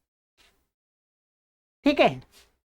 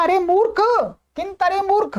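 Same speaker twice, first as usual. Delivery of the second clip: higher-pitched rebuke, not shouted; mock scolding; 5 semitones higher than usual. Shown as a demonstration. Listener rebuking the man who blurts bad news, mock scolding. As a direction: chide the fool in a raised pitch. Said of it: "अरे ये धीरे कहने की बात है".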